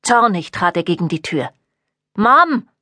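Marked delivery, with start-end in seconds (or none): 2.2-2.7 calls out loudly for his mother; shouted. A narrator's reading. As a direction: shout through the closed door. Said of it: "brüllte er". (Sohn brüllt laut nach seiner Mutter)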